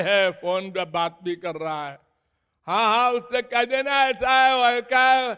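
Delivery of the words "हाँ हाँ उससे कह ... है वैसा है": higher-pitched driver talking on the phone; raised, carrying phone-call voice; acted phone chat. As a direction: play a driver busy on a call.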